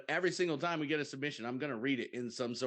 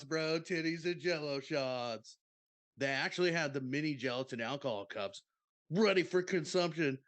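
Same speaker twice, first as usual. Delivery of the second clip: laid-back bro storyteller reading aloud; surfer-dude bro. Retold or imitated. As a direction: put on a party-dude voice, drawing out key words. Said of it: "that's how I feel you talk".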